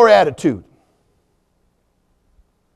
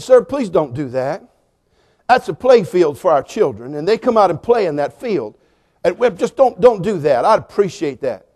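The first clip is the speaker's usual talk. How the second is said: polite restrained request. Retold or imitated. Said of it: "That's exactly how I said it".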